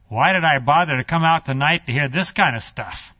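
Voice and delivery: lightly acted sarcastic grumble; Nicodemus, sarcastic. Nicodemus grumbling about coming out tonight, sarcastic. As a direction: let the sarcasm show in the complaint. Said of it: "the sarcasm is starting to build".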